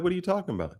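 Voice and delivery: high, puzzled retold question; perplexed. Host answering worried visitors about his sisters, perplexed. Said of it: "And I'm, and I'm perplexed".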